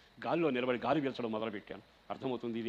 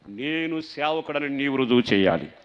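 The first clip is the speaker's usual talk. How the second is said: slow, louder pleading prayer; fervent prayer; 9 dB louder, slower than usual. Acted. Pastor quoting a prayer to the church, slow and fervent. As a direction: plead it slowly with rising force. Prayer quote, first take.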